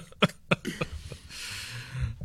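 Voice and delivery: amused laugh after a funny story; real laugh. Real, not acted. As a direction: laugh it out at the punchline.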